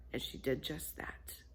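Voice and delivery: soft whispered punchline. A narrator's reading.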